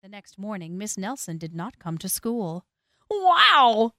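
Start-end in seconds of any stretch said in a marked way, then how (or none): 3.1-3.9 high, loud whoop; excited kids' yell. A narrator's reading. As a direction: yell it like gleeful schoolkids. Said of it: "yelled the kids".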